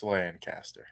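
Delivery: Lancaster as "LAN-caster", low and soft; quiet correction, Lancaster as "LAN-caster"; native pronunciation. Shown as a demonstration. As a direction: say Lancaster with a full "lan" and "cast". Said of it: "pronounce it this way".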